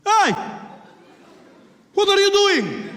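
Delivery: put-on loud, high accented shout; mock Arab passenger yelling in protest; indignant challenge. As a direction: call him out sharply, stretching the question. Passenger confronts the imagined attacker.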